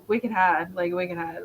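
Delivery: Boston-style "Wicked had"; Boston accent. Shown as a demonstration. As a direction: slip lightly into Boston slang accent. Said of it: "get into, like, the Wicked thing".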